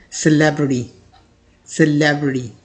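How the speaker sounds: American सेलिब्रिटी as sə-LEB-ri-di; American pronunciation. Shown as a demonstration. Teacher giving the American सेलिब्रिटी. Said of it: "American English में पढ़ेंगे".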